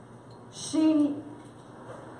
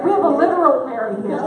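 laughing; 4 dB louder, faster than usual. Real, not acted. Crowd laughing about Mary.

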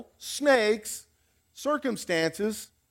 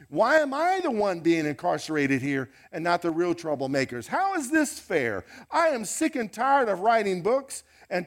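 complaining Paul. Pretend. Preacher voices complaining Paul.

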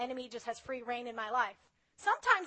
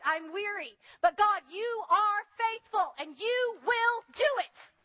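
1 fervent prayer; 3 semitones higher than usual. Acted. Preacher praying aloud to God, fervent and pleading. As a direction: pray it out, pleading and building.

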